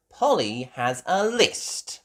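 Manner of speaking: put-on loud, high child announcement; proud. Peppa telling the shopkeeper about Polly, proudly. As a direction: announce it with pride. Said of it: "Peppa said proudly".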